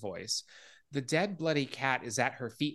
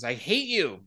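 mild mock scream; 6 dB louder than usual. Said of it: "she just screams".

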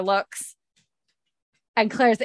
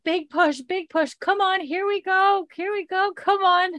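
much higher, slow encouraging birth coach; mock midwife coaching; 11 semitones higher than usual. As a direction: cheer her through the push like a midwife. Claire coaching a birth, retold.

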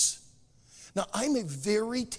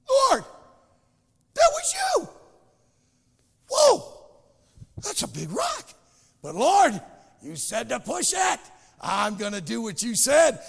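excited cry to the Lord; 4 semitones higher, 7 dB louder than usual. Acted. Guy finds the rock, cries out.

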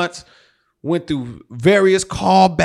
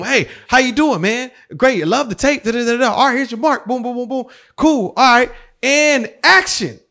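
higher, hurried director patter; breezy director; 6 semitones higher than usual. Retold or imitated. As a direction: rattle through it, then draw out "action". Plays the director greeting him on set.

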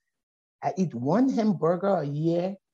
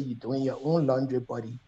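firm mock order; 5 semitones lower, 4 dB quieter than usual. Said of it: "I said".

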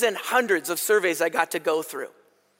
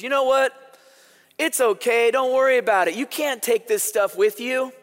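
kind reassurance; 4 semitones higher than usual. Retold or imitated. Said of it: "And she goes".

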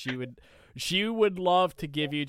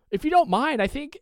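higher, louder mock mom voice; imitating mom; 11 semitones higher, 5 dB louder than usual. Son quoting his mom asking to question them, higher and louder mock mom voice. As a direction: put on his mother's eager tone. Son retells mom's request.

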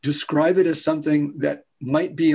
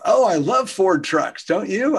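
fake small talk; 5 semitones higher than usual. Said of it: "it's just made up conversation".

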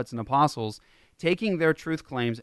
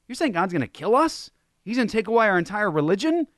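high, incredulous outrage, lightly mocked; indignant leaders; 8 semitones higher, faster than usual. Religious leaders protesting to Jesus, high mock outrage. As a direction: sputter in disbelief at Jesus.

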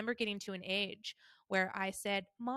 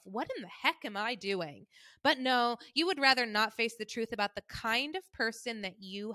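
mom's tone. Retold or imitated. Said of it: "this is how she talks".

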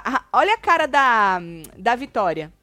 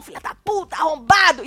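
retold angry outburst; 4 semitones higher, 3 dB louder than usual. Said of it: "já escalou de novo".

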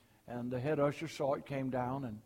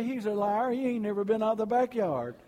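laughing punchline; 6 semitones higher, 7 dB louder than usual. Retold or imitated. Punchline delivered through laughter.

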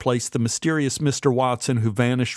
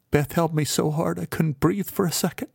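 usual speaking voice

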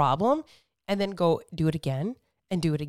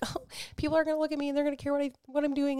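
higher, fast, anxious inner voice; mock anxious self; 7 semitones higher, 4 dB quieter, much faster than usual. Mother mocking her old gym worries, higher and fast. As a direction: rush it out, pitched up and fretful. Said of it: "And I was like".

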